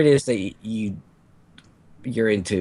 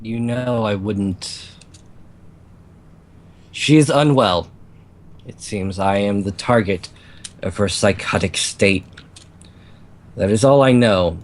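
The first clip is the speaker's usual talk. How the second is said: succubus voice; 3 semitones lower than usual. Acted. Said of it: "succubus voice".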